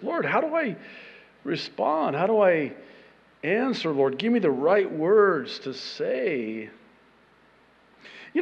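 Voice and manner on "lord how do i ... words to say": lightly acted plea, pitch swooping up and down; quick prayer. Man asking the Lord how to answer, mock pleading prayer. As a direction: lift it into a sing-song little prayer. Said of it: "just real quick prayer".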